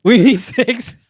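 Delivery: loud, excited echo. Real, not acted. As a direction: shout it out with excitement. Excited echo, counting down subs.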